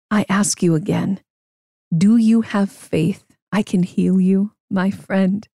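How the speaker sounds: gentle, steady and mysterious; calm and mysterious. Acted. Man comforting the donkey, calm and mysterious. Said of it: "in a calm and mysterious way".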